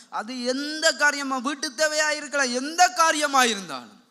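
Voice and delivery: rolling list that builds in force; emphatic preaching. Real, not acted. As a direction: build the list to a loud, stretched finish. (படிப்படியாக உயரும் பிரசங்கக் குரல்)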